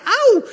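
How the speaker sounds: high loud pained ouch; ouch yelp. Acted. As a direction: yelp as if lips are burnt. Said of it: "Hij wil eigenlijk zeggen".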